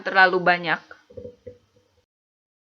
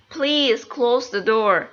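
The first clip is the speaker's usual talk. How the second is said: polite request; 2 semitones higher, much slower than usual. Shown as a demonstration. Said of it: "agar terdengar lebih sopan".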